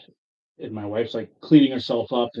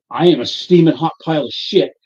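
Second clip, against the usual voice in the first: tag; 6 dB louder than usual. Retold or imitated. Retold outburst to crying wife.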